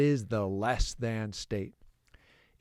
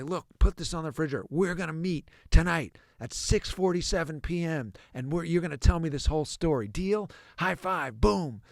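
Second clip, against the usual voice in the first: higher-pitched, upbeat excitement; excited; 5 semitones higher than usual. Acted. Parent setting a meeting with their kid, excited. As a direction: pitch it up, eager to make a plan. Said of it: "excited tone of voice".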